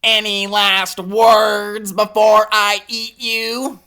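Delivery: slow, savoring monster voice; hungry monster. Acted. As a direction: relish every word before the bite. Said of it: "Licking its lips".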